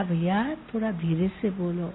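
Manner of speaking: soft, light request; gently. Retold or imitated. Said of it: "ऐसे ही हल्के रूप से कहा".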